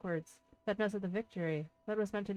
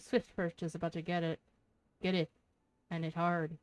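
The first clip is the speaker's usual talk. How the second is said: put-on reading a pirate's lines in a rough Irish accent; lightly put-on Irish brogue, gruff and sly; shitty Irish accent. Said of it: "shitty Irish accent".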